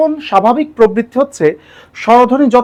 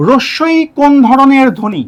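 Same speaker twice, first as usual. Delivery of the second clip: exam question read; slower than usual. Shown as a demonstration. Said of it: "যদি প্রশ্ন আসে".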